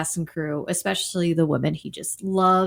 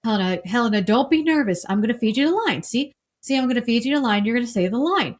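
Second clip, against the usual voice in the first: reassuring; 2 semitones higher than usual. Retold or imitated. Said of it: "she's nervous, and he says".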